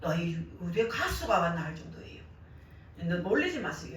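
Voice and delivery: ordinary talk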